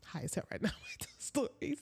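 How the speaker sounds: hushed giggly confession; half-whispered high admission with a laugh; giggly high aside. Real, not acted. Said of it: "By the way, I'm high as".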